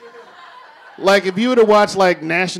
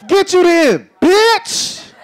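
higher, louder yelled insult; angry shout; 11 semitones higher, 4 dB louder, much slower than usual. Acted. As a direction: snap and shout it after her. Rejected man shouts.

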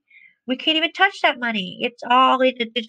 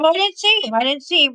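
feigned innocence; 5 semitones higher, faster than usual. Retold or imitated. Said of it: "I just wanna ignore him".

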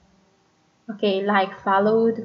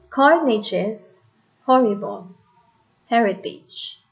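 measured falling beats on "horrible" and "Heritage"; dactyl stress. Shown as a demonstration. Teacher repeating dactyl example, "Carnage" stressed on first syllable. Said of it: "Stress, unstressed, unstressed".

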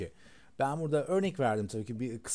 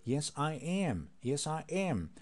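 slow; much slower than usual. Shown as a demonstration. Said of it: "Önce yavaşlayarak söyleyebilirsiniz".

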